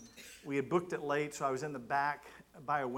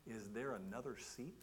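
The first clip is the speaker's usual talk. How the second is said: quiet inner thought; 9 dB quieter than usual. Retold or imitated. Private thought after awkward confession.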